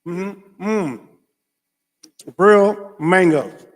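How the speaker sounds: loud, very slow delight; savoring exclaim. Real, not acted. Vlogger holding mangoes, slow loud delight. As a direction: draw it out lovingly.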